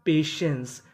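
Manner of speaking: पेशेंस with "टीआई" said as a sh sound; "टीआई" read as शे. Shown as a demonstration. Teacher showing learners how to read पेशेंस, sh sound for "टीआई". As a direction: say पेशेंस as pay-shens, sh in the middle. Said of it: "टीआई को यहाँ पे शे पढ़ना है".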